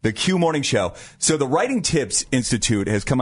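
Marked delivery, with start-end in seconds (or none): 0.0-0.9 polished station ID read over music; radio station announcer. Acted. Host opens the morning show to listeners, radio announcer delivery. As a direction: punch out the call sign, then roll on.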